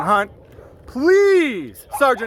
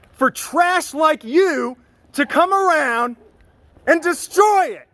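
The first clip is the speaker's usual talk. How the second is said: slow building anger; 4 semitones higher, slower than usual. Real, not acted. To the sergeant, about ruining the department's image: slow building anger. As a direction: drag the words out and build the rage.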